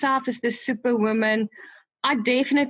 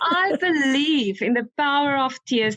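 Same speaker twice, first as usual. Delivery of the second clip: teary; 3 semitones higher than usual. Real, not acted. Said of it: "Miss Crybaby".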